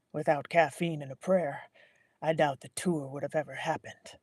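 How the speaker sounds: raspy assistant voice. Acted. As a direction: rasp the words. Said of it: "A raspy voice followed".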